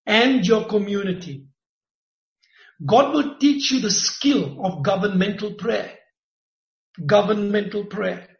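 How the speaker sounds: measured, emphatic prophecy delivery; prophesy over her with weight; prophetic preaching. Acted.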